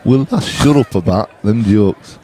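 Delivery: slow, low Yorkshire accent; drawn-out Yorkshire delivery. Shown as a demonstration. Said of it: "are you saying that in a Yorkshire accent".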